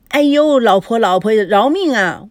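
loud, hammed-up begging; pleading for mercy. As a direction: yelp playfully for mercy. Man begs wife for mercy.

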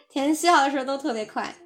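chuckling through the words; teasing with a laugh; amused teasing repeat. Real, not acted.

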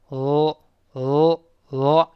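呃 as a held "l", tongue tip on the ridge; isolated L sound. Shown as a demonstration. Teacher isolates L for learners, 呃 as a held "l". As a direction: press the tongue tip up and hold 呃 as "l". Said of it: "L舌尖往上顶上去".

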